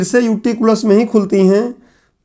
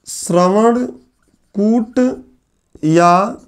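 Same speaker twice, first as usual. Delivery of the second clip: slow dictation; much slower than usual. Shown as a demonstration. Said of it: "याद रखिएगा".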